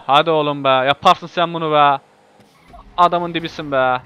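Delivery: rallying yell at the car; loud cheering. Real, not acted. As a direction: shout encouragement, slowing on yaparsın. Urging his car on.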